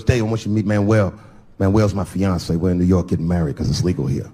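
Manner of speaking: friend's voice. Acted. Voices the friend introducing fiance.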